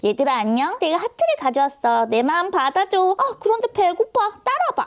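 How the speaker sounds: high put-on voice of a talking toy. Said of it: "와 목소리가 또 바로 바뀌시네요".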